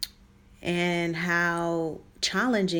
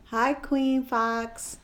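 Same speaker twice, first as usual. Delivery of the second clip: yelling; 5 semitones higher, much slower than usual. Real, not acted. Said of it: "you yelling?".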